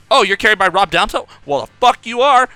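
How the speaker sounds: loud, high furious vow; angry trash talk. Retold or imitated. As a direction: spit defiance at the opponent. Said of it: "you go".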